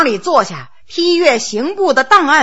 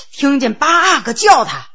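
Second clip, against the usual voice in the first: plain reading voice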